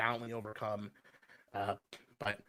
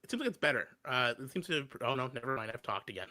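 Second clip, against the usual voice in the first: half clear, half digitized voice; words drop out into robot artifacts; robotic glitchy audio; 3 semitones lower than usual. Real, not acted. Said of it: "and then you go robotic".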